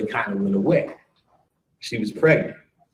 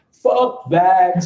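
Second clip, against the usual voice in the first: loud refusal; 6 semitones higher, 6 dB louder than usual. Retold or imitated. Kid refusing to go with aunts.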